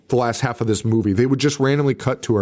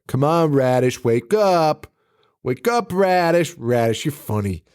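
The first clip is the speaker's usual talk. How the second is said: coaxing Courtney; 3 semitones higher than usual. Acted. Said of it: "She's like".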